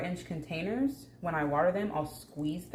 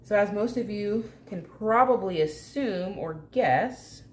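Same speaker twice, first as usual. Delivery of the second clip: a hint of a game show host, slow and emphatic; 3 semitones higher, 4 dB louder, slower than usual. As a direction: sell it like a TV host. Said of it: "Sound like a game show host".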